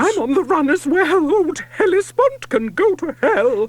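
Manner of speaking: loud, high yell. A narrator's reading. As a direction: yell it out in triumph. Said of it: "She yells".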